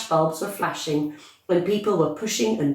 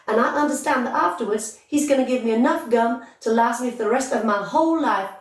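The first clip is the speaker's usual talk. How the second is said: put-on high, fast-talking, boastful girl voice; brash gum-chewing girl; 4 semitones higher than usual. Spoilt girl bragging to reporters, high and boastful. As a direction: show off to the reporters, pitched up and pushy. Violet's boastful speech continues.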